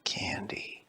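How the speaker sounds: soft, secretive whisper. Acted. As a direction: breathe the word like a secret. Boy whispers one word.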